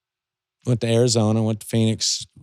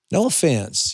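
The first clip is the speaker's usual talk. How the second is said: retold in a higher, careful voice; mock-delicate preamble, pitched up; tactful hedging; 4 semitones higher, slower than usual. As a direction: tread carefully, imitating a polite critic. Retold tactful criticism from rival.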